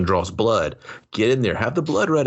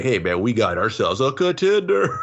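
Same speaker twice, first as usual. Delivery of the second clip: mock game voice; 2 semitones higher than usual. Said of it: "They're like".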